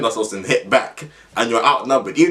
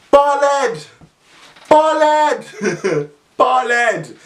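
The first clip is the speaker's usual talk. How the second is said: mocking taunt; 12 semitones higher, much slower than usual. Kids jeering at the bald caretaker, high mocking shout. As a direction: chant it like cheeky kids mocking.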